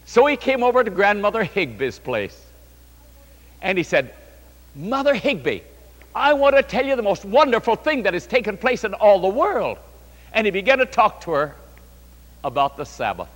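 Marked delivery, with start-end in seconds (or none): 4.8-9.8 raised, eager retelling of big news; mildly acted excitement; retold enthusiasm. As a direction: announce wonderful news, lightly acting it out. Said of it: "he became so enthused".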